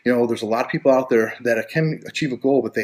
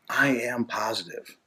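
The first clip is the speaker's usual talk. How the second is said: affirmation voice; 5 dB quieter, slower than usual. Shown as a demonstration. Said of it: "start to say things like this".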